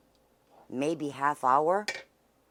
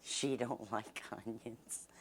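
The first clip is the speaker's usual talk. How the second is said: laughing softly; 4 semitones lower, 9 dB quieter, slower than usual. Real, not acted. Teasing about sister's food dislike.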